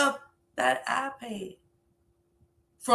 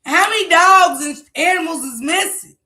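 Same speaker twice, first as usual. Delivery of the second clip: loud, incredulous yelling; exasperated shout; 5 semitones higher, 7 dB louder than usual. Real, not acted. Viewer shouting in disbelief about the missing animals. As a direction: fling the questions out in disbelief.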